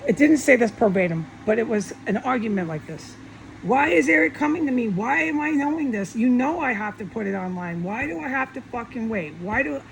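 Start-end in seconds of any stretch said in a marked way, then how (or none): 3.6-9.8 higher-pitched, exasperated demands of why; furious arguing. Retold or imitated. Arguing with Jesus over being silenced, furious. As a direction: re-enact pleading, indignant questions in a rising argument. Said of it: "I'm getting furious at this point".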